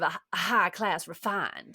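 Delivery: lightly refined Southern American accent; Tennessee Williams Southern. Shown as a demonstration. Showing a preferred refined style, light Southern accent. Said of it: "Tennessee Williams sort of accent".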